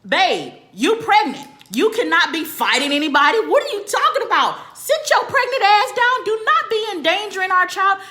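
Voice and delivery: high, loud mock husband pleading; husband yelling back. Husband on the phone begging pregnant wife, loud high shout. Husband voiced telling her stop.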